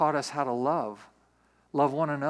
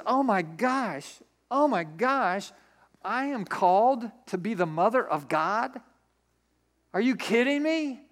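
slow, drawn-out gasping astonishment, rising at the end; mock astonishment, stretched out; stunned disbelief; 4 semitones higher than usual. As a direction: act out reeling at huge news. Mary acts stunned at the news.

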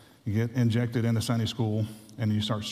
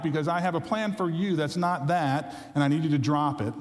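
voice of God; 5 semitones higher than usual. Pretend. Voicing God's call.

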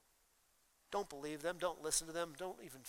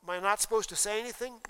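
objecting listener; 3 semitones higher, 3 dB louder, faster than usual. Retold or imitated. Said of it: "some of you must say".

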